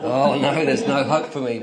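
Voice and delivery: preacher mock-groans there is no hope for him, laughing; mock despair through laughter. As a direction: play up being beaten with a laugh.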